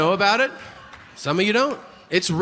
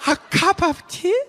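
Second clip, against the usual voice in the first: put-on very high-pitched caricature Chinese accent; mock Asian accent; 14 semitones higher than usual. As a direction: squeak short offers in a put-on Chinese accent. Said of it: "he's mocking an Asian accent".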